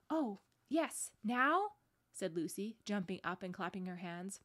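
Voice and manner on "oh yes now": high, loud eager question; delighted child's interjection; excited. A narrator's reading. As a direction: burst in, eager for what's next. Lucy jumping up and clapping.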